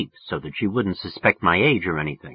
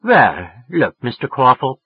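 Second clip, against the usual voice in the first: louder woman's voice, taking charge; lightly voiced woman; 3 semitones higher, 5 dB louder, slower than usual. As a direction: start to set terms with the caller. Woman addressing the caller.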